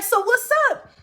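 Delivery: high, loud mock menace; threatening challenge. Bouncer brandishing a pole at her, threatening. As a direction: imitate someone daring you to fight.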